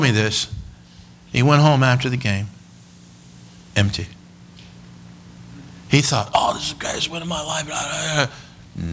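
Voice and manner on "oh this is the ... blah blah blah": soft, trailing blah-blah; dismissive mumble. Retold or imitated. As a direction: let the quoted thought fade away. Dismissive retelling of hollow win.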